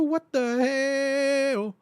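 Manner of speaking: high, slow cartoonish "what the hell"; goofy silly voice. Reacting to sub alerts.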